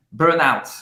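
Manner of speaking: "Burnout" in an American English accent; American-English pronunciation of "Burnout". Shown as a demonstration. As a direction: say "Burnout" the English way, not Frenchified. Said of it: "Ela tá falando com sotaque em inglês".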